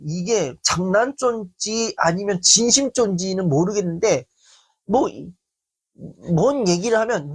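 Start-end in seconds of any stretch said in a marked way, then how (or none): none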